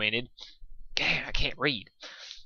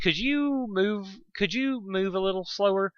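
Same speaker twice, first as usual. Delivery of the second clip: Rainbow Dash voice; 7 semitones higher, slower than usual. Acted.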